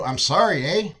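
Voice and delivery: Canadian "sorry" with a tagged-on "eh?"; Canadian accent. Shown as a demonstration. Host shows the AI how it's done, Canadian accent. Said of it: "only a human could do".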